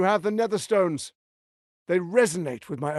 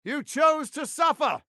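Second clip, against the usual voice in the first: higher-pitched, slowing on the second cry; furious condemnation; 6 semitones higher than usual. Acted. Villain condemns the hero in battle, furious and rising. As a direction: spit out the verdict on a doomed enemy.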